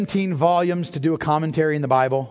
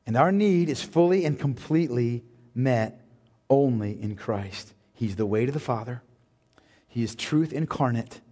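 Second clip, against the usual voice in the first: much softer and lower, hushed; quiet reverence; 9 semitones lower, 5 dB quieter than usual. Acted. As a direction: speak it like a gentle assurance. Quiet closing on Christ.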